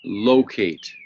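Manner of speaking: Locate said slowly, LO-cate; teacher modelling a word; model word locate. Shown as a demonstration. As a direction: sound out Locate clearly for children. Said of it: "Try to say it".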